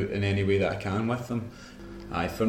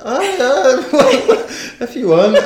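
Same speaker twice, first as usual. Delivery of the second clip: laughing; 14 dB louder, much slower than usual. Retold or imitated. Retold giggly reply to prank.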